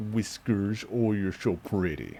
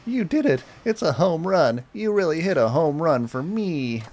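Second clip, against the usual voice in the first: much higher, louder joyful shout; excited cheer; 7 semitones higher, 6 dB louder than usual. Acted. Girl thrilled the home run was hit, loud joyful cheer. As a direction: cheer him on with delight.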